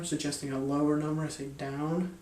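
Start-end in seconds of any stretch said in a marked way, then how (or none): 1.5-2.2 a deliberate, set-apart "Down"; emphasized DOWN. Shown as a demonstration. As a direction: let the word "Down" stand out on its own. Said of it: "I kind of emphasize that word down".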